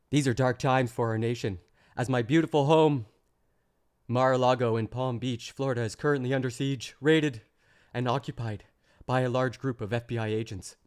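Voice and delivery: mock Trump read. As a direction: read it like an indignant Trump, overdoing it. Reading Trump's statement mockingly.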